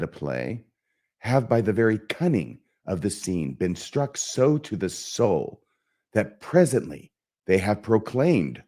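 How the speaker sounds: deliberate, brooding stage soliloquy; Hamlet. Acted. Hamlet plotting to catch the king's conscience, deliberate and theatrical. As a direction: think aloud in weighted phrases with long pauses. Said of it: "try and just perform the soliloquy here".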